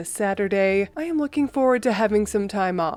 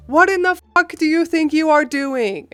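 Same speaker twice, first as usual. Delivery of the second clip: higher, louder furious shout; angry yell; 6 semitones higher, 5 dB louder than usual. Retold or imitated. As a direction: charge out and tear into her. I go charging out of the house.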